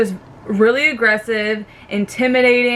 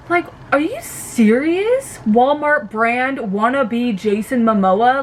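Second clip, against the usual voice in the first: incredulous; 2 semitones higher, slower than usual. Real, not acted. Mocking Jack in disbelief.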